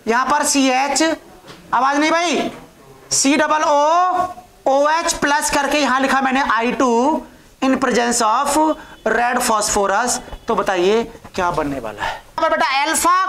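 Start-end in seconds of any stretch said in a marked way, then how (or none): 3.1-10.2 increasingly drawn-out dictation; slow right down as you write. Real, not acted. Teacher writes a new reaction for students, slow dictation.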